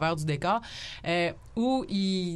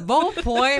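laughing; 7 semitones higher, 8 dB louder than usual. Real, not acted. Laughs at a joke.

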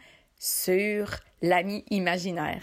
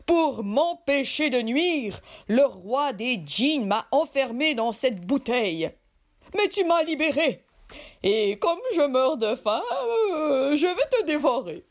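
menacing genie; 2 semitones higher than usual. Acted. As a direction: threaten like a hungry giant. Genie threatens to eat him.

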